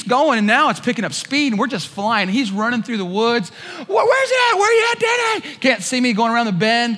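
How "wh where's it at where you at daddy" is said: calling out. Retold or imitated. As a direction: holler after the lost kayak. Friend calling through woods.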